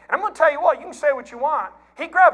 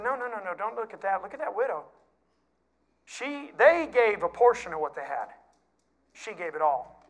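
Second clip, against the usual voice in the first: soft, hushed redirect; quietly steer their eyes to the widow; gentle correction; 4 semitones lower, 5 dB quieter than usual. Retold or imitated. God gently tells disciples to look at widow, softly.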